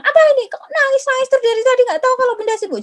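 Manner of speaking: high, loud irritated scolding; annoyed scolding mother. Pretend. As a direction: snap at the crying kids like a stressed mum. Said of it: "Jangan ikutukan". (ibu yang kesal membentak anak, nada tinggi dan keras)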